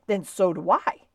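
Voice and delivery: loud, spirited declaration of loyalty; loyal cry. A narrator's reading. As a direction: cry it out in firm support. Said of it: "cried Stewart loyally".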